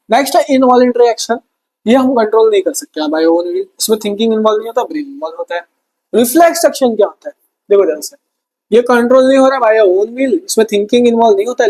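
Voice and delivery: ordinary talk, nothing marked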